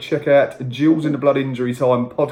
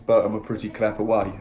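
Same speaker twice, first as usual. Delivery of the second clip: put-on light South African accent. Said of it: "I don't know why I did that in a South African accent".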